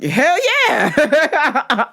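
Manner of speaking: a hint of a tired officer; worn-out cop. Sweaty officer answering the speaker, lightly voiced weariness. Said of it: "he's like".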